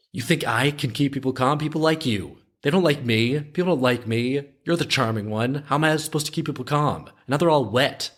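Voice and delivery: high-pitched, flustered protest as a retold character; acting out a worked-up objection; agitated complaint. Acted panicked complaint in retold film.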